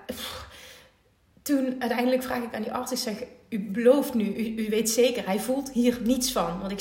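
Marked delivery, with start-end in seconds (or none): 3.5-6.6 louder, pressing the doctor for a promise; insistent demand. Retold or imitated. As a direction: make him promise, firmly. (dringend aandringen bij de arts)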